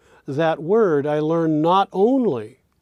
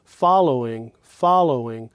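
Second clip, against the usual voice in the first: "following" with stressed "fol", low "low", slightly higher "ing"; syllable pitch pattern. Shown as a demonstration. Teacher demonstrating pitch steps, "following" stressed on its first syllable. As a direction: punch "fol", then let "following" drop and barely lift. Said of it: "just slightly higher than the low".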